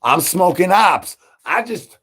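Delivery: high, loud hype yell; excited outburst. Acted. Hyping himself up to the audience, high loud yell. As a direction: blurt it out all hyped up.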